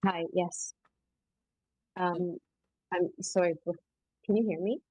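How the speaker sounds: muffled, as if hand over mouth. Real, not acted. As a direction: speak through a muffled mic. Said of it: "Sorry, you're a little muffled".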